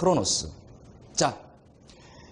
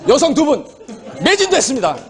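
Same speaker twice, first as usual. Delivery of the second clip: laughing; 7 semitones higher than usual. Real, not acted. Sale ends with laughter.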